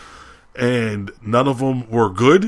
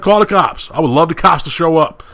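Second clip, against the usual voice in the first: higher-pitched, eager retold dare; defiant comeback; 5 semitones higher than usual. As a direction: act out calling their bluff.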